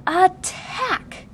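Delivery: high, ringing shout from afar; rally the troops; battle shout. A narrator's reading. Child launches the mock attack, shouting. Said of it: "The shout came".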